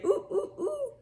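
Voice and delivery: high squeaky hooting ooh; monkey hoots. Acted. Narrator imitating the monkeys in the zoo story. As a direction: hoot like a monkey.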